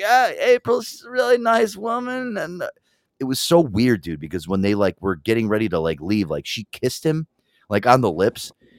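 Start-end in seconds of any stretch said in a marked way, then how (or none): 0.0-2.4 put-on high, slow stoner voice. Retelling what a friend said about April, imitating a stoner. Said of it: "He was, like, really, like, stoner".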